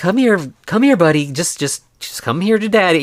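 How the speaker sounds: put-on gentle coaxing tone. Retelling how a man tried to calm the monster down: acting out soothing coaxing. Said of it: "trying to calm the monster down".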